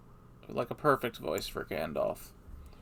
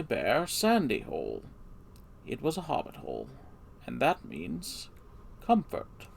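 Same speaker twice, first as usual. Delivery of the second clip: a hint of an old wizard telling the tale; wise old wizard; 3 dB louder than usual. Shown as a demonstration. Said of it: "the old wizard, uh, wise old wizard voice".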